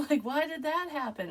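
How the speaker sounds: laughing through a high question. Real, not acted. Dreamer retelling the fall, laughing as she asks. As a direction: giggle while asking why.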